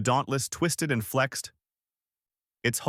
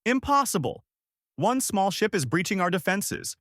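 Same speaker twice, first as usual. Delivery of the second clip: high-pitched outraged narrated roar; alien commander's roar; 9 semitones higher than usual. A narrator's reading. Alien commander reacts to breached defenses, narrated high roar. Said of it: "The alien commander roared".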